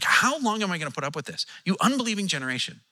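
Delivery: fed up, scolding the crowd; frustrated Jesus. Shown as a demonstration. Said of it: "there's only one way to say it. Jesus is frustrated".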